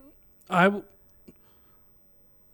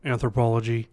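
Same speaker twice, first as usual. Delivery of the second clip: imitated deep voice, slightly lowered; 3 semitones lower than usual. Woman naming her college degree, mock deep voice. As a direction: drop a little deeper, imitating her. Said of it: "she had just a deep voice".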